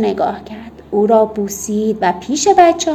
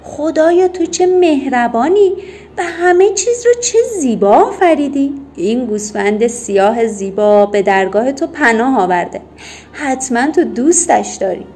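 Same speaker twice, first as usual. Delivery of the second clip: solemn raised call, praising the Creator; loud proclamation; 2 semitones higher, 4 dB louder than usual. Acted. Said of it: "با صدای بلند گفت".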